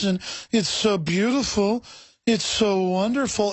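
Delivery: slow, lightly put-on sappy gushing; mocking liberal voice. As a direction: drawl it out like a smug true believer. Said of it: "they talk like this".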